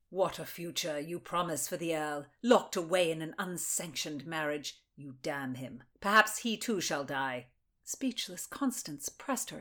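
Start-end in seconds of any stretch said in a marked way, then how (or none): 0.1-7.5 a cold, accusing noblewoman; lower, measured accusing lady; stern noble lady. Acted. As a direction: interrogate her like a grand lady. Mildred voiced again.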